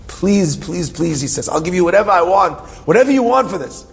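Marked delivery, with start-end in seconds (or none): 0.1-1.2 repeated, imploring pleas in a retelling; pleading. Retold or imitated. Friend begs the storyteller for his matzah, pleading. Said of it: "He's begging, pleading". 1.5-3.8 urgent pleading offer, pitch climbing high; retold desperate bargaining; begging. Friend offers anything in exchange for matzah, begging. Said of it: "He's begging, pleading".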